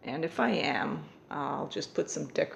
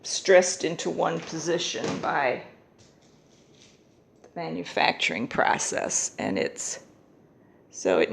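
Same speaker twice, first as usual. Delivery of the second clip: raised voice over the dryer noise; over hair dryer; 3 semitones higher, 15 dB louder than usual. Real, not acted.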